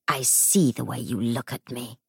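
hollow ghost voice. Acted. Ghost figure speaks.

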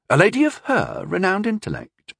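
rising in surprise; surprised. A narrator's reading. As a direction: ask it with surprise.

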